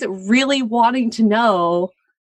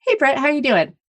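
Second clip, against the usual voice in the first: casual greeting; 5 semitones higher than usual. Shown as a demonstration. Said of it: "There's a difference between".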